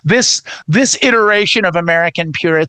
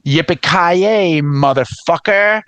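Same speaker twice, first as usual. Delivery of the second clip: hero catchphrase; 2 semitones lower, slower than usual. Retold or imitated. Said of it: "He's like".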